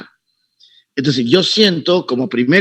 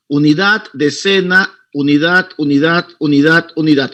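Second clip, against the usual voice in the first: counting digit places. Shown as a demonstration. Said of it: "tú te lo recuerdas así".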